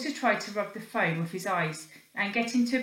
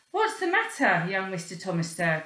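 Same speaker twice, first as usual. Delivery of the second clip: calling out. Acted. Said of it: "called the porter".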